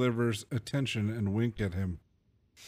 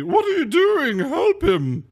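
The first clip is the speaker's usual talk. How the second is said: much higher, louder, alarmed; urgent shout; 13 semitones higher, 8 dB louder, slower than usual. Acted. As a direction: yell at the guard to help. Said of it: "I'd like to say to the guard".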